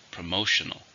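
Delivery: "Promotional" with MO stressed; stress on second syllable. Shown as a demonstration. Teacher models the adjective for learners, "Promotional" stressed on the second syllable. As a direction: demonstrate "Promotional", leaning on the second of four syllables. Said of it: "stress on the second".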